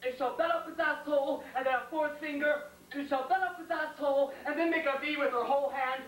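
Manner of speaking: insistent questions climbing in pitch; building jealous rant. Acted. Soldier imagining his lover's girl, a mounting jealous rant. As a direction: pile up each question, stretching the last one.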